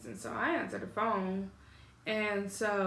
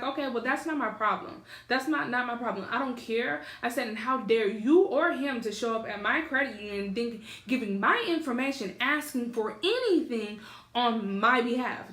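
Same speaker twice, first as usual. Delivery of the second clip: retold indignant outburst; heated, insistent scolding, a little raised; flipping out; 2 semitones higher than usual. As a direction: reenact telling grandma off, emphatic. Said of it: "So I flipped my lid".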